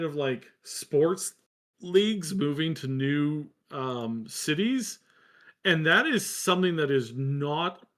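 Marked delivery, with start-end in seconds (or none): 5.6-7.9 speaking through hiccups. Real, not acted. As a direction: talk with hiccups breaking in. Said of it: "I have the hiccups right now".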